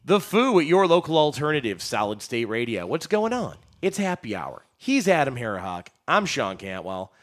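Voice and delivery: upbeat station ident read; punchy radio presenter delivery. Real, not acted. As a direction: introduce the show like a drive-time host.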